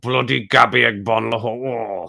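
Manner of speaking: slow, drawn-out growl of the name; mock angry growl. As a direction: grind the name out slowly in mock rage. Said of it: "the fist and the growl".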